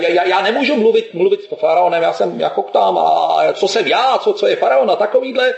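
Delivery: halting, repeated starts; stuttering. Retold or imitated. Moses stammering his excuses to God, stuttering. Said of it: "on koktal".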